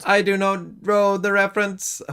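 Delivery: flat robotic monotone. Pretend. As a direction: talk like a robot, every word even. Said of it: "did you speak like a robot?".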